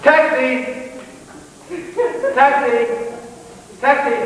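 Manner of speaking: high, loud shout for a cab; calling out. Acted. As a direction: hail a taxi across the street. Hailing a cab in the street.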